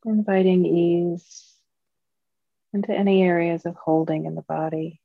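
calm, measured meditation guiding, long pauses between phrases; guided meditation. Acted. Teacher leading Dharma friends into mindfulness practice, calm guided meditation. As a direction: guide a group gently, leaving long silences.

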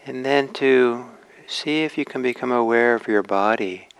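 unhurried meditation guidance with long pauses; gently measured meditation teacher's voice; guided meditation. Acted. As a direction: ease listeners into posture and awareness, leaving space between phrases.

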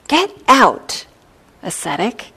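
sharp, high, loud order from the ogre; a gruff demon throwing out a monk; ogre's command. Acted. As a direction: bark it out like a rude ogre.

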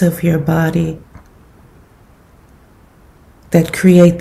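calm, unhurried meditation guidance with long pauses; guided meditation. Acted. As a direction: gently guide them into settling the body, leaving space between phrases.

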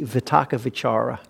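Vitakka Vichara with a clear V sound; V pronunciation. Shown as a demonstration. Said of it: "with a V".

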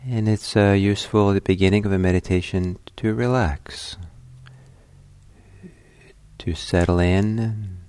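unhurried meditation guidance with long pauses; guided meditation. Acted. Teacher settling listeners at the start of a meditation, calm guiding voice. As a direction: guide them gently inward, phrase by phrase, leaving silences.

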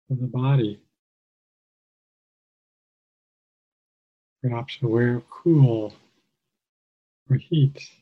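calm, measured meditation guide with long pauses; guided meditation. Real, not acted. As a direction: guide listeners gently, phrase by phrase, leaving space.

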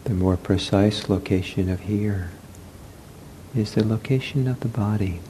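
unhurried meditation guidance with long pauses; guided meditation. Real, not acted. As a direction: guide them gently into the body, leaving space. Leads a seated meditation.

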